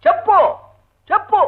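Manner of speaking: high, halting, word by word; insistent demand. Acted. Husband questions his hard-of-hearing wife, insistent and high-pitched. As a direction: press for an answer, pausing between words.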